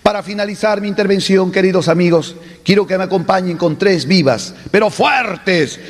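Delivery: party orator calling for cheers; rally cry. Acted. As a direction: lead the crowd in vivas. Orator leading vivas.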